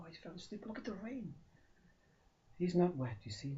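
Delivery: plain reading voice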